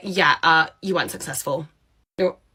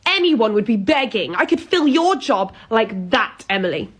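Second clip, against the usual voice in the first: lightly voiced self-important pub manager, a bit higher; a hint of an entitled manager scolding; pompous boss; 4 semitones higher than usual. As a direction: lecture her like a smug boss who thinks she's a catch. Plays the boss Karen.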